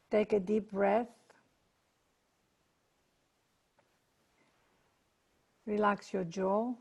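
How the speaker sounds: calm relaxation guidance with long pauses; guided meditation. Acted. Leader settling a group before prayer, guided meditation. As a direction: ease listeners into stillness, unhurried.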